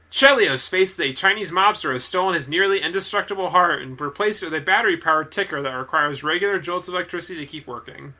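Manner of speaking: punchy read-aloud of a film blurb; synopsis read-out. Real, not acted. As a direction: read out the plot summary with firm emphasis.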